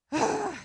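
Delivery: high, audible sigh; exasperated exhale; heavy sigh. Real, not acted. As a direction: let out a big sigh before carrying on. Reacting to the grim story.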